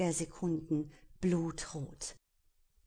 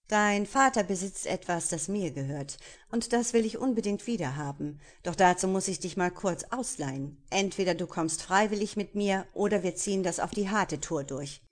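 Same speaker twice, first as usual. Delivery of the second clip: loud, cocky pirate threatening her; 4 dB louder than usual. Acted. Pirate threatens Destiny over her father, loud and cocky. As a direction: swagger through the threat, pushing hard.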